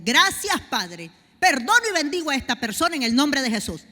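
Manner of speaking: loud, bold prayer of forgiveness; forgiving declaration. Shown as a demonstration. Preacher shows the church how to forgive, loud declaration. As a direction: proclaim it out loud to heaven.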